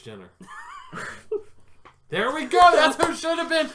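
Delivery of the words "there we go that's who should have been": laughing, higher and louder. Real, not acted. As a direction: giggle through the words. Laughing at own joke.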